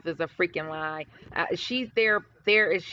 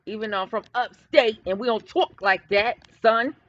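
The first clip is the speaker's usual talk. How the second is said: playful put-on New York accent; punchy, jokey New York accent. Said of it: "in my New York accent".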